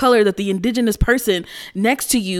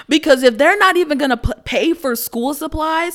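higher, laughing disbelief; higher, louder laughing rant; laughing incredulous; 7 semitones higher, 3 dB louder than usual. Real, not acted. Laughing rant at teacher claim.

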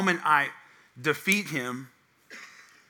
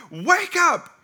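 higher, louder retold shout of a wife; mock yell; 11 semitones higher, 6 dB louder than usual. Wife banging the wall at night, retold loud yell. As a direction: yell to wake him, hammed-up. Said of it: "banging on the wall".

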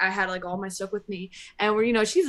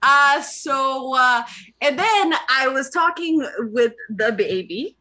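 hammed-up Canadian accent; mock Canadian storyteller, accent slightly overdone; 3 semitones higher, 4 dB louder than usual. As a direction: lay on a playful Canadian accent. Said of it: "finish the story in a Canadian accent".

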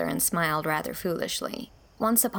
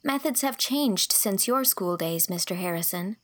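put-on indignant young girl. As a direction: protest earnestly. Girl retorting.

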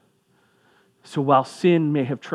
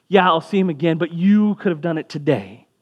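raised-voice reproach, mildly heated; frustrated Martha; 3 semitones higher, 4 dB louder than usual. Acted. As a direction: push back in acted frustration. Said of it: "in her frustration and her anger".

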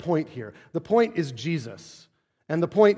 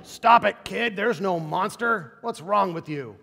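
harsh parent; 3 semitones higher, slower than usual. Pretend. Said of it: "we don't say".

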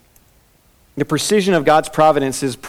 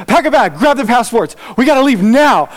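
panicked; 5 semitones higher than usual. Retold or imitated. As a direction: blurt it out, out of breath from running home. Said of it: "he's huffing and puffing".

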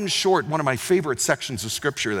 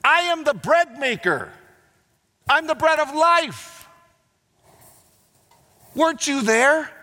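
impassioned plea; 10 semitones higher than usual. Retold or imitated. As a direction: plead with them, voice lifting high. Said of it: "His point is this".

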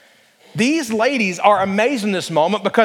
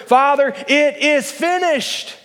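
solemn final words; 6 semitones higher, slower than usual. Acted. Jesus's final words on the cross.

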